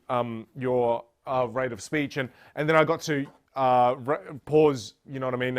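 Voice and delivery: halting, full of ums and uhs; deliberately rambling with ums; demo of filler-laden rambling. Shown as a demonstration. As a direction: stumble through on purpose, filler everywhere. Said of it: "I know that was very dramatic".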